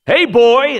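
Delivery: high, loud holler across a room; imitated yell. Old man hollering to a young man across a crowded party, yelling. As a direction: call out like a gruff old man. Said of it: "but he yells, he goes".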